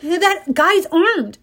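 slow, high alarmed cop. Acted. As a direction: warn your partner, slowly. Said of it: "another cop said".

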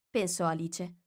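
ordinary delivery

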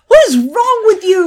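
high, loud mock disbelief; who on earth likes that?; shocked teasing at a friend's taste; incredulous. Real, not acted. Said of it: "I like pickled herring".

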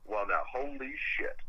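whispered holy shit, under the breath. Real, not acted. Stunned reaction to the question.

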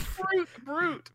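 high-pitched laughing delivery. Real, not acted. Cohost cracking up at a silly cereal name, laughing. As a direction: say it while cracking up.

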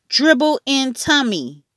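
put-on a little kid proudly explaining; toddler voice. A narrator's reading. A hint of toddler Fudge telling his brother.

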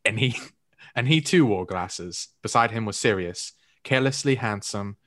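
put-on overly proper, old-fashioned English accent. Shown as a demonstration. Reading Harry Potter so friends can place it, English accent. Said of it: "when I do an, an English accent".

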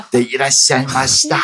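fast, formal honorific Japanese; polite Japanese. Shown as a demonstration. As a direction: rattle off the polite form. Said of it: "重新学敬语".

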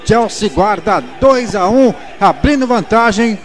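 energetic commentary. Acted. Analyst replay, loud.

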